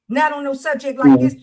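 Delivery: loud, stern warning. Real, not acted. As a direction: lay down the law, firm and loud. Stern warning on serious topic.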